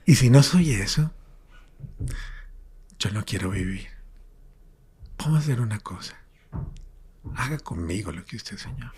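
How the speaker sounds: hushed, half-whispered plea to God; desperate prayer. Retold or imitated. Retells his desperate prayer to God. (oración desesperada en voz baja, casi susurrada)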